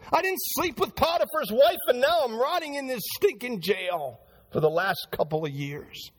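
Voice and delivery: lightly voiced prisoner protesting his innocence; Joseph complaining. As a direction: Joseph pleading from jail, a touch aggrieved. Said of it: "That's what Joseph was saying".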